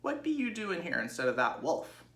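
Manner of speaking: put-on Ma the old ewe croaking at the pig. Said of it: "Ma's hoarse tones".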